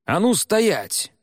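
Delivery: high, slow, loud command to halt; shouting. Acted. The lieutenant shouts across the scene to stop them, high and loud. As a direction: bark the order to freeze. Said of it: "крикнул им другой полицейский".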